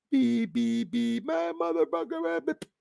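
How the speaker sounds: high squeaky beeping over the words; imitated censor beep. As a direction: bleep like a censored clip cutting out.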